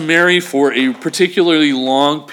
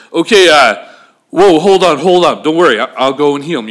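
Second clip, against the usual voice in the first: quick, hurried reassurance; reassuring agreement; 3 dB louder than usual. Shown as a demonstration. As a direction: cut in to calm a panicked man and agree. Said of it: "you could read it one way".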